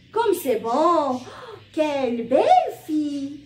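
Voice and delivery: slow, drawn-out admiring exclamations; a teacher modelling exclamations; exclamation demo. Shown as a demonstration. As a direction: stretch the words with delight. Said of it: "On donne un sentiment".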